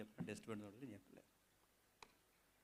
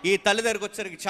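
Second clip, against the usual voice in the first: loud, driving sermon delivery; forceful preaching; 8 semitones higher, 14 dB louder than usual. Acted. Preacher exhorting the congregation, loud and forceful. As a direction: preach it out to the whole church.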